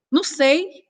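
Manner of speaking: "Não sei." pitched high with a rising end. Shown as a demonstration. Answering a text while emotional, high and rising. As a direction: sound unsure and a bit hurt. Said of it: "E ela vai ler com o tom".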